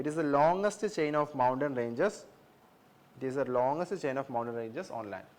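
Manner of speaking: very slow, word by word, like dictating notes; slow dictating teacher voice; slow dictation. Shown as a demonstration. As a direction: spell it out slowly so students can write. Teacher dictating a note slowly.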